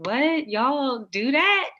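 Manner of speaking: loud, high, incredulous; surprised. Acted. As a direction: act shocked at the question. Acted surprised reply to friends.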